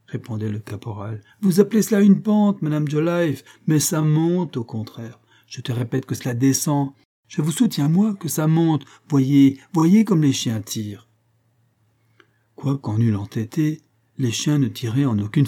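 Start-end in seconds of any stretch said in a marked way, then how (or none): 1.4-11.1 stubborn insistence. Acted. Corporal stubbornly contradicts his wife.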